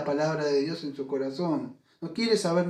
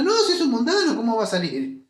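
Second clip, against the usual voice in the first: incredulous exclaim; 5 semitones higher, 4 dB louder, faster than usual. Real, not acted. Preacher exclaims at absurd question.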